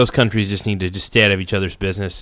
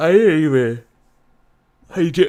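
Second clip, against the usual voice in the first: speaking through a yawn, higher pitch; 8 semitones higher, 4 dB louder than usual. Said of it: "I'm sorry if I'm yawning".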